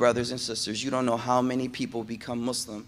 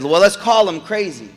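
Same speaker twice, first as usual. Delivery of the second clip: mock scheming suggestion; 7 semitones higher, 9 dB louder than usual. Quraysh leaders voiced in story.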